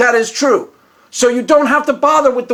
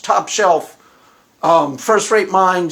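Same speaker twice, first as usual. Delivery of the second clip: ordinary talk, nothing marked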